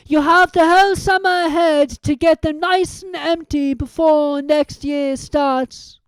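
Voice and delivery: put-on slow, benevolent old man; Dumbledore's voice. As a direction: Dumbledore addresses the school at the feast. Dumbledore's speech.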